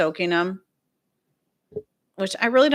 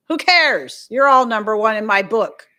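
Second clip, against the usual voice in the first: excited cheer; 3 semitones higher, 8 dB louder than usual. Real, not acted. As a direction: cheer everyone on loudly. Cheering viewers on.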